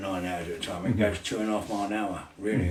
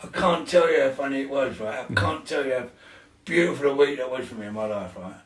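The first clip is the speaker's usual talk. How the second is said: excited retelling; 3 semitones higher, 4 dB louder than usual. Retold or imitated. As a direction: gush with delight about the best week ever. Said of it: "and I went".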